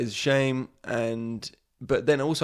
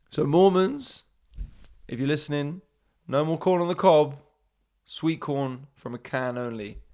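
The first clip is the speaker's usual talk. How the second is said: mock proclamation; 3 semitones higher, 3 dB louder than usual. Mock announcement to Mormons.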